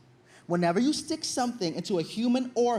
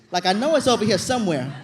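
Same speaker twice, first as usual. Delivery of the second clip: fretful searching Velma; 4 dB louder than usual. Retold or imitated. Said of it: "like that girl from Scooby-Doo".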